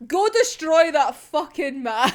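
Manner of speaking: slow, loud mock command; drawn-out command dissolving into laughter; emphatic order. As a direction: hammer out the order, cracking up. Acted order, repeated through laughter.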